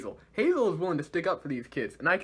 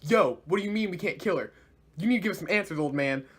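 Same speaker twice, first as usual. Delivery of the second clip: higher-pitched indignant demand; mock yelling; 4 semitones higher than usual. Friends demanding answers from Ozpin, mildly yelled. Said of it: "yelling at him like".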